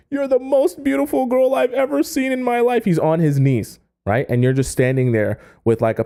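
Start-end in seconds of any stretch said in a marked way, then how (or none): 0.1-2.9 high, pleading cry of a kneeling man; sobbing admirer. Retold or imitated. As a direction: plead way up high, mock weeping. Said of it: "He's literally shouting".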